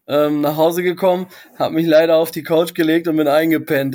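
heiser und verkatert nach dem Feiern; verkaterte Stimme. Real, not acted. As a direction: etwas heisere Morgenstimme, wie nach durchzechter Nacht. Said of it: "du klingst schon so ein bisschen, als hättest du ordentlich gezecht". (verkatert-heisere Stimme)

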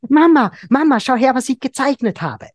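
put-on high, loud, eager child calling Mama; excited child. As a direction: call out thrilled like a kid showing a drawing. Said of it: "ganz begeistert". (begeistertes Kind, hoch und laut)

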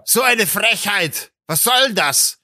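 drawn-out, slow indignant complaint; grumbling, put-on indignation; mock lamenting outrage. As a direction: imitate someone ranting about the cheek of it. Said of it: "so rumlamentiert".

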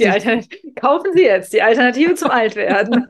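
put-on bright old-fashioned commercial announcer; chipper 1950s ad. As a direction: sell it like a cheery vintage ad. Joke ad for alternative to aging.

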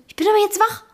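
deutlich höher, trotzig beharrend; genervt nachgemacht. Retold or imitated. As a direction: den genervten Schlaftrunkenen nachäffen. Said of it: "weil du so extrem genervt". (genervt nachgeäfft)

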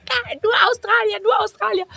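hammed-up delight at meeting Australians; excited clubgoers. Clubgoers cheering about Australians, mock excited.

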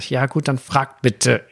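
a touch of impatience; mildly annoyed dad giving in; genervt. Retold or imitated. (leicht genervt)

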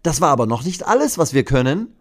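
schnell und höher gerufen; strahlender Ruf. Acted. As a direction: ruf es stolz und eifrig. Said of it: "ruft Mathilda strahlend". (schneller, strahlender Mädchenruf)

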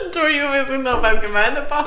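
words through helpless giggles; fighting off a laughing fit. Real, not acted. Laughing fit over joke.

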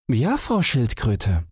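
high, slow hare voice; eager little hare. Acted. Hare answers the tortoise.

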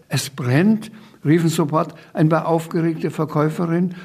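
put-on lively reading-aloud voice for a children's book; story narration. A narrator's reading. Author reading his children's book aloud, lively narration. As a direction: read the chaos scene with relish.

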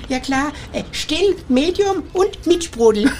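slow proud answer. Acted. Dim son answers proudly.

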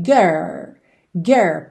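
put-on "Girl" stopped at "gurr", no L yet; low, curled R in "Girl", halting before the L; held American R. Shown as a demonstration. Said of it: "Para nesse meio".

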